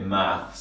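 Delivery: "maths" said with a final s, the British way. Shown as a demonstration. Teacher giving learners the British word, said "maths" with final s. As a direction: say "maths" with the s at the end. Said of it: "In British English, we say".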